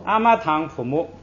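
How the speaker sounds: 堂 with a clear aspirated puff, said properly; the careful, correct way; proper aspirated form. Shown as a demonstration. Teacher modelling the correct form for students, aspirated. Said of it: "咱们就正正经经的".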